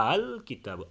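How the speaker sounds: আল begun firmly, its second hamza only lightly touched; tashil. Shown as a demonstration. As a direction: soften the second "a" onset in আল, then কিতাবু. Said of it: "দ্বিতীয়টা হালকা".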